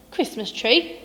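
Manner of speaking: spluttering. Acted. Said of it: "spluttered Grumpy Badger".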